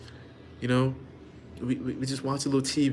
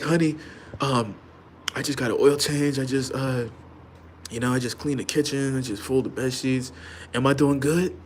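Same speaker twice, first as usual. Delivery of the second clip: eager, pleading husband voice, pitched up; simp husband voice; 2 semitones higher than usual. Retold or imitated. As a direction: beg for approval like a simp.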